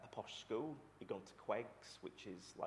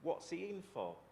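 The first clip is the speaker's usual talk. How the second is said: really loud voice; 9 semitones higher, 4 dB louder than usual. Retold or imitated. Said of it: "say in a really loud voice".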